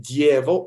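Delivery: "Dievo" said as DYE-vo, the opening glided together; first stress option. Shown as a demonstration. Conductor comparing stresses for a choir, "Dievo" with a gliding start. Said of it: "Where do we want the word stress".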